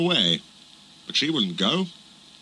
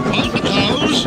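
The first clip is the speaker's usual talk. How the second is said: loud warning call; 11 semitones higher, 4 dB louder, slower than usual. Acted. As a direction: shout a warning. Engine warns cows while rushing.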